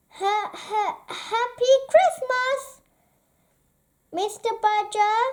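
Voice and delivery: high, nervous stammer; timid. Acted. Mole nervously greeting grumpy Badger, timid high stammer. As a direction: stutter it out, afraid of Badger. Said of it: "he said timidly".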